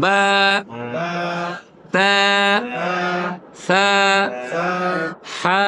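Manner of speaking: letter names বা, তা, সা each held briefly on the vowel; one-alif elongation. Shown as a demonstration. Teacher drills eleven letters for repetition, one-alif elongation. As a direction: recite each letter alone, vowel moderately stretched, then pause. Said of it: "নাম উচ্চারণে এক আলিফ মাদ হয়".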